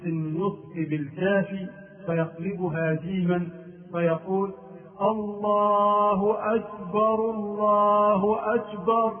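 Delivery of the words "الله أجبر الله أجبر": raised slow chant with "أكبر" pronounced ajbar; kaf turned to jeem. Shown as a demonstration. Teacher imitating the mistake, chanting "أكبر" as ajbar. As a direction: sing the call with a j for the k in "أكبر". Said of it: "قلب الكاف في أكبر جيما".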